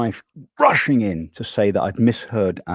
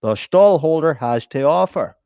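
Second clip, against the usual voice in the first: stallside customer; 3 semitones higher, 3 dB louder than usual. Acted. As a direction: play a self-important bargain hunter. Acting out market stall sketch.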